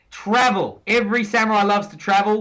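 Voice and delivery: lightly put-on Australian voice; host starts his travel tip in a faint Aussie voice; mock Aussie accent. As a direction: slip back into a hint of Aussie. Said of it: "let's turn on the Aussie again".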